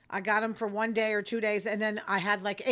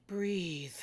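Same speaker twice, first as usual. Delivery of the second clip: calming voice; 3 semitones lower, 6 dB quieter than usual. Retold or imitated. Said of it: "she's, like, got this voice going".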